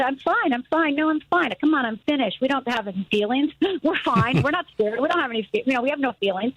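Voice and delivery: light mock-cheerful denial; outside Rhonda. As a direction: chirp it out like nothing is wrong. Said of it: "The outside Rhonda".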